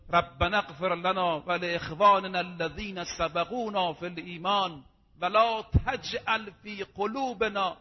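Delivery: slow, measured chanting of the verse; Quran recitation. Acted. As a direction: intone it like a reciter in the mosque.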